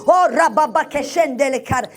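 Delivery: speaking in tongues. Retold or imitated. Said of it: "prier en langue".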